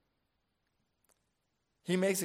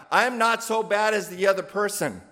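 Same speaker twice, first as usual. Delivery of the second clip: smug self-justifying; 4 semitones higher, 5 dB louder than usual. Retold or imitated. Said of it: "this is the mindset that we have".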